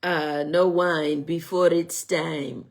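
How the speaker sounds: a light mock Parisian accent on a waiter's apology; hammed-up Parisian accent, barely there. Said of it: "In my Parisian accent".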